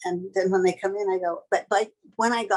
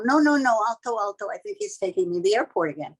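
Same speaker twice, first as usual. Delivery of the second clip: panicked plea; 3 semitones higher, faster than usual. Retold or imitated. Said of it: "so I'm banging on it".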